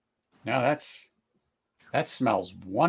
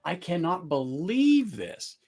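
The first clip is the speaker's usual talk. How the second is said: slow, higher, drawn-out amazement; awed disbelief; 6 semitones higher, slower than usual. Retold or imitated. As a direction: savour every word in wonder. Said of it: "I just sit there and go".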